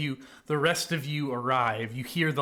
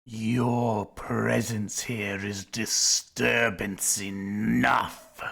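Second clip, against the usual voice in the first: snake voice; slower than usual. Acted. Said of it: "be doing the snake impression the whole time".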